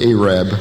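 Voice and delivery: Arab as AY-rab, low; local pronunciation. Shown as a demonstration. Pastor confirming how they say that town, Arab as AY-rab. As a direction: repeat the town's name as "AY-rab". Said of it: "That is the way they pronounce that town".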